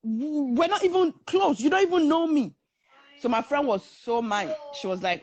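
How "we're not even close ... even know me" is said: higher, offended protest; indignant comeback. Retold or imitated. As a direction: imitate an affronted friend telling him off. Friend confronts man over insult.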